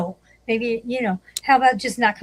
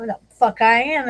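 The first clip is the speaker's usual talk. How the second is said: raised, louder mock defiance; defiant retort; 4 semitones higher, 5 dB louder than usual. Retelling the reply to an apology demand, defiant retort. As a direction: throw back a retold refusal.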